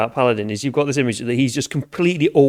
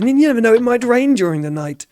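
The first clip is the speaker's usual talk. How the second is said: put-on strange farmer accent; 8 semitones higher, 4 dB louder, faster than usual. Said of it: "I've got a really strange accent now".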